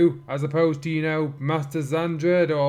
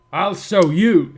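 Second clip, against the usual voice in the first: heroic shout; 4 semitones higher, 9 dB louder, slower than usual. Acted. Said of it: "said Spike".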